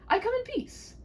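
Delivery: a bold knight calming a frightened maiden; gallant knight. Acted. Knight reassuring the maiden, high and grand.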